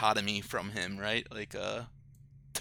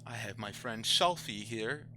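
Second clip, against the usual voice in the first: a lightly voiced proper gentleman, unhurried; a hint of a posh monster host; 5 dB quieter than usual. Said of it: "accent that you do".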